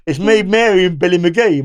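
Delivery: high-pitched retelling of Mary. Retold or imitated. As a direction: raise the voice for Mary again. Repeating Mary's line in her voice.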